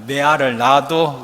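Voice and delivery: lightly put-on Gyeongsang accent, loud; Gyeongsang dialect. Shown as a demonstration. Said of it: "경상도 사투리는 뭐라고 할까요?". (경상도 사투리로)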